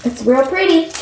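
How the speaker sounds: dry sarcastic "real pretty". Real, not acted.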